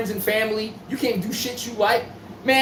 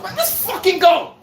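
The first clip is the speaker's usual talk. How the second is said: hype celebration yell; 7 semitones higher, slower than usual. Retold or imitated. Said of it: "I'm like".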